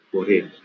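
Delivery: "Corea" stressed on the first syllable, CÓ-re-a; correct stress. Shown as a demonstration. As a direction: say "Corea" with the weight on CO, three syllables. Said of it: "se dice Corea".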